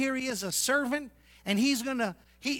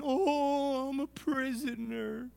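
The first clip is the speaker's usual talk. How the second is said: a hammed-up self-pitying sigh; mock whine; 5 semitones higher, slower than usual. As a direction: sulk about being a captive. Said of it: "He could have whined and complained".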